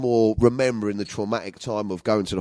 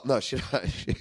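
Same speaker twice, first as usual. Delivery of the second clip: ordinary delivery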